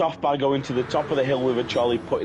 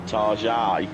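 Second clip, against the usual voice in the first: posh pronunciation; 2 semitones lower than usual. Shown as a demonstration. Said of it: "that seems too fancy".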